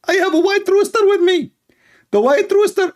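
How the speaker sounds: squeaky parody, proud of his rooster; high, squeaky preacher voice; Ali Dawa. Acted. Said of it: "Ali Dawa".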